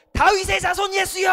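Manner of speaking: high, loud, ringing call on 다윗의 자손; a beggar crying out for the Messiah. Shown as a demonstration. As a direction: cry out 다윗의 자손 예수여 as a plea. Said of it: "하고 불렀어요".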